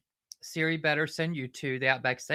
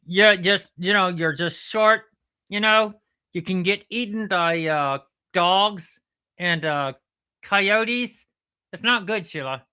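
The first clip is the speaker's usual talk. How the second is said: higher-pitched, lively puppet platypus; platypus character; 5 semitones higher, 6 dB louder than usual. Pretend. Platypus character talking to Sheila.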